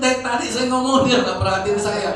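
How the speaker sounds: high-pitched mock angry complaint; retold angry father. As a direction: imitate a cross father complaining he was ignored. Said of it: "dia marah-marah".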